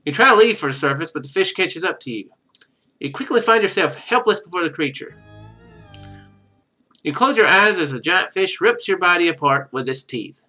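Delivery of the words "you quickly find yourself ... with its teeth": ordinary talk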